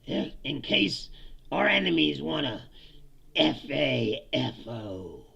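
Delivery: loud mock war talk, slowing to spell the letters out; imitating a tough-talk speech. Vlogger mocking the war secretary's speech, loud then slow. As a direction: ham up a macho speech. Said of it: "he says".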